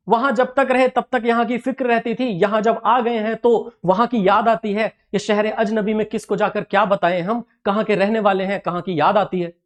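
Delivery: verse recited, gradually sinking in pitch; poem recitation. Acted. Recites verse voicing a migrant.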